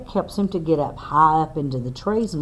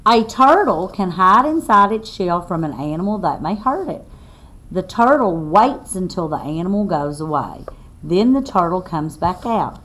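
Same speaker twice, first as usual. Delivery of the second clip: put-on reading to children; 4 dB louder than usual. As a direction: spell it out clearly for little listeners. Reads book text aloud.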